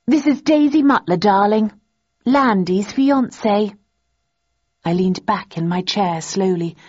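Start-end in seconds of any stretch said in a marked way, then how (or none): 0.1-3.8 smug. A narrator's reading. Daisy gloating to her rival, smug and higher. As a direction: savour every word. Daisy introducing herself smugly.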